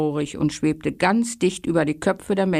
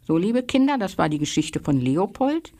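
bedtime farewell. Acted. Bedtime sign-off to children.

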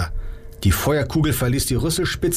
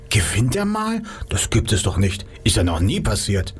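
murmuring crowd voice. Acted.

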